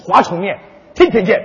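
jingly noodle commercial patter; mock TV ad read. Partner cuts in with a mock noodle commercial. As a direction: pitch the noodles like a TV spot. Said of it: "你这广告插的也太多点儿了".

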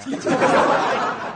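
loud airy laugh; laughing mid-rant; laughter. Real, not acted. Host mocking gossiping girls, loud airy laugh.

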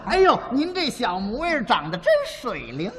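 compliment in Beijing dialect; casual Beijing-accented praise. Shown as a demonstration. Crosstalk comic showing his partner a Beijing compliment, Beijing dialect. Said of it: "北京话说这句话，这么说了".

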